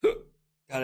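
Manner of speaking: talking through hiccups. Real, not acted. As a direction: hiccup caught mid-word. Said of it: "I can't stop hiccuping".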